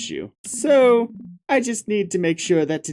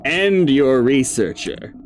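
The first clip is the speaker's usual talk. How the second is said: slow, cold villain threat; menacing king; 3 semitones higher, 3 dB louder, slower than usual. Acted. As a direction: promise every death, one by one. King threatens to kill party.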